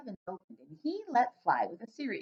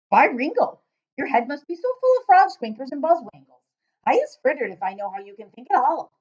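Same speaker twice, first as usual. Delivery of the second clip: loud giant voice; 4 semitones higher, 8 dB louder than usual. Acted. Giant questioning the girl, booming and puzzled. BFG ranting.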